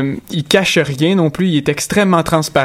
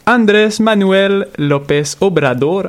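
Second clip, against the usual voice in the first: name said slowly with a Spanish accent, pitched higher; 5 semitones higher, slower than usual. Shown as a demonstration. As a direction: roll the Spanish name the way it's said in Mexico. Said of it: "avec mon accent espagnol". (accent espagnol appuyé, plus aigu et plus lent)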